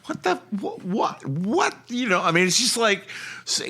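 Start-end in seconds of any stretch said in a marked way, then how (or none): 0.1-1.8 much higher, stammering disbelief; a bewildered Aussie at the telly, much higher; baffled Australian. Retold or imitated. Australians watching US news, stammering in higher disbelief. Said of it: "Australians watching American news going".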